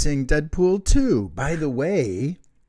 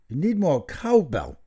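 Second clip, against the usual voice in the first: Christopher Walken. Acted. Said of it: "I don't know how to do him".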